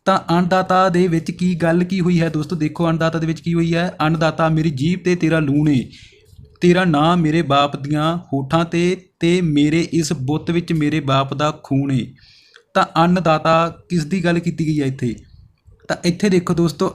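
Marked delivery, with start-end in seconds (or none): 4.0-12.1 slow, measured reading of verse; slow recited poem verse; poem recitation. Acted. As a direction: recite the lines slowly and deliberately. Teacher recites the poem lines.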